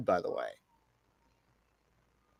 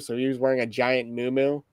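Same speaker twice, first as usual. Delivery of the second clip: usual speaking voice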